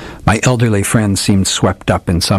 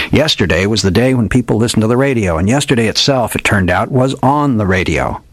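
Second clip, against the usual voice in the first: lightly voiced old detective, a bit higher, grand and theatrical; hardboiled old detective; 3 semitones higher than usual. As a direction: play the old gumshoe spinning a dramatic yarn. Old detective tells his tale.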